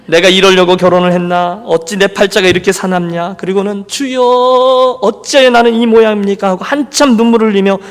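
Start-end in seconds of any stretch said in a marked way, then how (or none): 0.0-3.3 retold lament in an even, droning line; imitated wife's complaint; self-pitying grumble. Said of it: "이건 기도라기보다는 푸념". 3.9-6.5 imitated self-pitying prayer; plaintive prayer. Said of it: "이건 기도라기보다는 푸념 아니겠습니까?".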